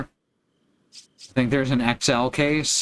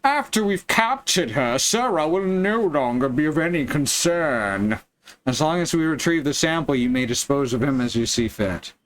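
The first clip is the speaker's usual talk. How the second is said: put-on a touch of a smug old-fashioned villain; old-timey misogynist voice. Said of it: "I'm going into my old-timey misogynist voice".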